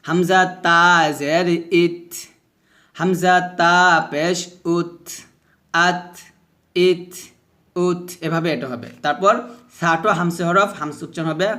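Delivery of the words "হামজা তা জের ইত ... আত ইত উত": slow spelling with puffed final t; aspirated, vowelless endings on আত, ইত, উত; hams drill. Shown as a demonstration. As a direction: release air after each t in আত, ইত, উত. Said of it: "এভাবে বাতাস বের করবেন".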